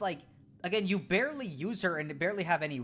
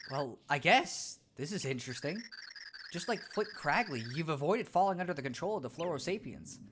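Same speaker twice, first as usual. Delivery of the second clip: calm wise pixel. Acted. Pixel answering the startled Cragnon, calm sage voice. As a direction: speak like a serene little oracle.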